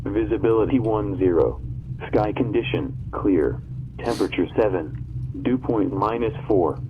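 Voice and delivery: automated radio broadcast voice; airport weather broadcast. Real, not acted. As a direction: read it like a recorded ATIS loop. Recorded airport information broadcast.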